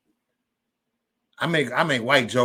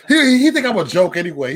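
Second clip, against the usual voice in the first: laughing; 4 semitones higher, 6 dB louder than usual. Real, not acted. Laughing about friend.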